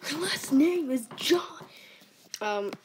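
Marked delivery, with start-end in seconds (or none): 0.1-1.6 breathy secret whisper; hushed whisper. Acted. Random whispered aside.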